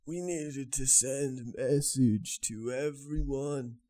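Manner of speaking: put-on Irish accent. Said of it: "This character".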